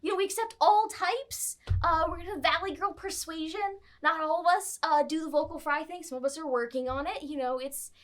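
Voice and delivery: chatty welcoming friar, a bit high; lightly high valley girl friar; vocal friar. Acted. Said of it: "vocal friar".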